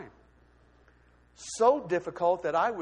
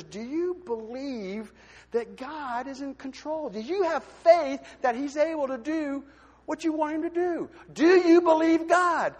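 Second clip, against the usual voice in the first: gentle friend; 8 semitones higher, 6 dB louder than usual. Retold or imitated. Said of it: "she put her arm around me and she goes".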